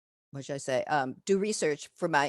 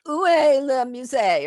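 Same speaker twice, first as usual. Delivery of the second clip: French question; 7 semitones higher, 7 dB louder than usual. Retold or imitated. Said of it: "and I say".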